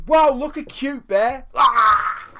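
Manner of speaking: high, loud gushing over a cute bear; mock-delighted tourist coo; New Yorkers cooing at a bear, high and loud.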